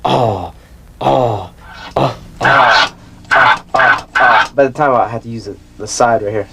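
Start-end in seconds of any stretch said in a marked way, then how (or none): 0.0-4.5 vocal scratch sound. Shown as a demonstration. Showing friends the new scratch he learned. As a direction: chant oh oh ah ah like a scratch. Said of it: "then I learned this one".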